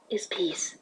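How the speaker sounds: breathed out softly; whispered. Acted. Celestia urging peace on Chrysalis, whispered. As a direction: let it fade to a whisper.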